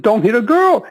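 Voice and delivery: high, pleading excuse; sheepish protest. Retold or imitated. To the trainer who asked what: high sheepish repeat.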